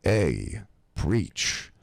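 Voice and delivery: lightly voiced East Coast wise guy; a hint of slick mobster; Pasquale. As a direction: greet him like a mob tough guy. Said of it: "comes up to me just like this".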